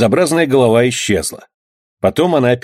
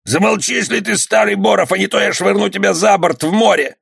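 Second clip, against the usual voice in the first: threatening bandit; 10 semitones higher than usual. Acted.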